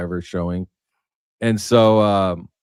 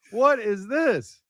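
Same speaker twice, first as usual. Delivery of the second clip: high, incredulous squeal, breaking into a laugh; high-pitched what-is-this disbelief; stunned disbelief; slower than usual. Retold or imitated. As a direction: act floored, then laugh and slow right down. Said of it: "And I'm like".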